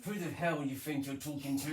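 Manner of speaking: lightly voiced cross mum; Mum impression. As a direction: scold like an annoyed mum. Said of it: "Impression of Mum".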